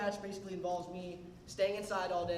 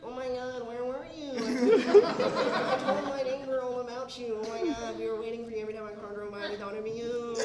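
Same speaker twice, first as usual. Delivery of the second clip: excited Dizzy imitation; 4 semitones higher, 8 dB louder than usual. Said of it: "And she's like".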